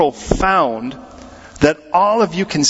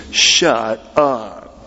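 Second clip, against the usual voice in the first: disbelief; 6 semitones lower than usual. Retold or imitated. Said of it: "says it in disbelief".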